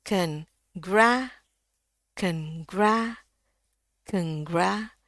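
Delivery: slow "kengra", schwa then wide æ; demonstrated pronunciation. Shown as a demonstration. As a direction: say "kengra" in two syllables, rising on gra. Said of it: "Kalau dibaca". ("kengra" dengan e pepet, lalu æ lebar)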